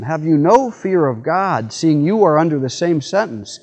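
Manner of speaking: a firm dying man's rebuke; stern rebuke. Acted. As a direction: scold him with conviction. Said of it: "the other one rebuked him".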